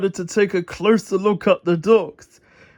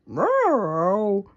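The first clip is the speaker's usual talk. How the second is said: howling meow. Acted. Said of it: "howled Pilchard".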